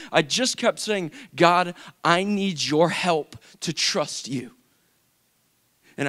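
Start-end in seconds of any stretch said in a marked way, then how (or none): 1.4-4.5 slow, deliberate plea; earnest prayer. Retold or imitated. Praying over and over for help, earnest plea. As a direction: weigh out each word to God.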